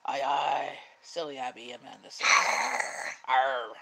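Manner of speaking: gruff pirate growl. Pretend. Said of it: "more like a growl".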